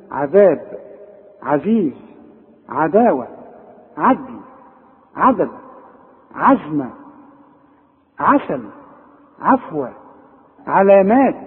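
thin vowel after ع, word by word; separate, carefully articulated Ayn words; correct light Ayn. Shown as a demonstration. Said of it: "العين عا".

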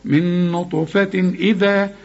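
slow, recite من نطفة إذا with the noon shown clearly, no nasal hum; clear recitation, no ghunna. Shown as a demonstration. Teacher demonstrates izhar to student, slow careful recitation. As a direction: stretch it slowly, tanween plain before إذا. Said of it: "الهمزة دي من حروف الإظهار".

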